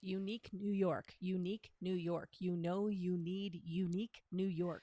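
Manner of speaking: loud articulation drill; crisp loud drill. Shown as a demonstration. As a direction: project each syllable. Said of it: "one of the hardest tongue twisters".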